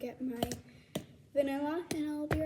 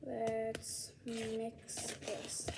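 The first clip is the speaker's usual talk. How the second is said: whispering; 2 semitones lower, 6 dB quieter, much slower than usual. Real, not acted. Quiet aside while mixing.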